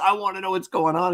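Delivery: mock pushy, confrontational, in-your-face insistent tone. Imitating Captain Christopher confronting the crew: imitating an in-your-face demand. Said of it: "in his face".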